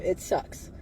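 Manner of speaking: a soft whispered aside. Real, not acted. She repeats her MK Ultra admission in a whisper. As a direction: breathe it out quietly.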